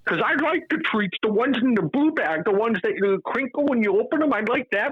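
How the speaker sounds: very high insistent imitation; Temple Grandin. Cat explains which treats to dad, high impression. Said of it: "with a Temple Grandin voice".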